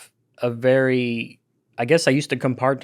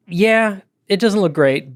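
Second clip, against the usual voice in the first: drawn-out, higher, grudging concession; reluctant admission; 4 semitones higher, 4 dB louder, slower than usual. Pretend. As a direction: concede it slowly, then defend him. Acting as press secretary hedging.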